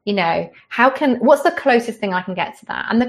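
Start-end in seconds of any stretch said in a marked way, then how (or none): none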